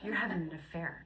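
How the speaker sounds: repeating it through a laugh; amused echo of the accusation. Retold or imitated. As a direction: laugh while quoting him.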